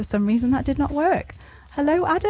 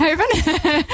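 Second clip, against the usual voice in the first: laughing through the name; 9 semitones higher, slower than usual. Real, not acted. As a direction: chuckle it out, amused.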